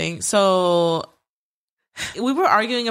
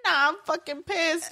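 angry retold quote; 8 semitones higher, 5 dB quieter than usual. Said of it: "to my sister, I'm like".

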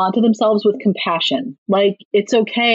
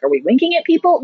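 put-on confused kid; 5 semitones higher than usual. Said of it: "And I was like".

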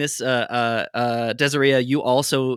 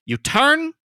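higher, louder urgent warning; 3 semitones higher, 4 dB louder than usual. Acted. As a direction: press the warning hard on turn and run. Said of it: "says to Leon, like".

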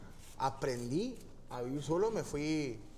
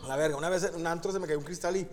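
laughing; faster than usual. Real, not acted. Laughing at own story.

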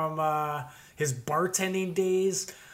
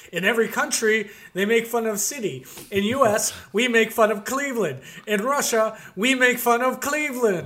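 put-on heavy russian accent menace; 4 semitones higher, 4 dB louder than usual. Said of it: "such as".

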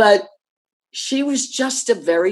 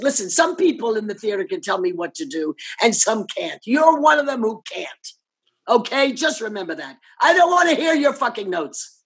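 telling her off; 2 semitones higher than usual. Retold or imitated. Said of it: "this makes me so mad".

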